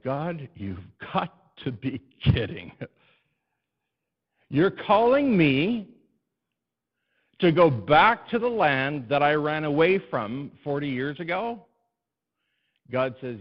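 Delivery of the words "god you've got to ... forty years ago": high, loud and slow disbelief; incredulous Moses. Retold or imitated. Moses protesting to God, high, loud, slow disbelief. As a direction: Moses can't believe what he's hearing. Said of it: "Moses now is standing back and saying".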